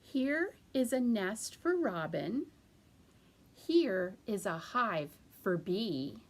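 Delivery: teacher showing the rhyme first; rhyme recitation. Shown as a demonstration. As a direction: recite it for little ones. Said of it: "I'm gonna show you first".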